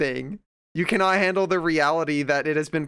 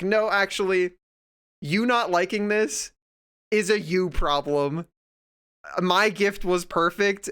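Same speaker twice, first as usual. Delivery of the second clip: mock defiant parent; 4 semitones higher than usual. Mocking the stubborn gift-giver.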